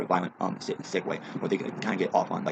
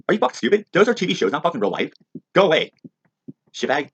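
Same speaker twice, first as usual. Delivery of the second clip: loud, higher angry yelling; furious shout; 10 semitones higher, 8 dB louder than usual. Real, not acted. Ranter shouts at the kids, loud and angry. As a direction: blast them with scorn.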